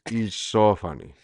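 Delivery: hammed-up adoring fan; fawning fan. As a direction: lay on fake praise for a comic. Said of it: "go on and be like".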